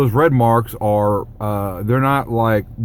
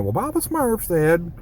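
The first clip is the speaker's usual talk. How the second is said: lightly voiced cartoon know-it-all, slow and higher; a slow, higher-pitched mock quote; Brainy Smurf; 5 semitones higher, 3 dB quieter than usual. Quoting a cartoon character to viewers, lightly imitated. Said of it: "Brainy Smurf".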